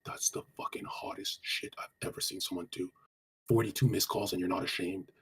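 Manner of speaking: slow, soft near-whisper compliment; playful hush. Retold or imitated. Answering his angry girlfriend, slow soft teasing. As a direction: tease her quietly to flip the mood. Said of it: "And you go like this".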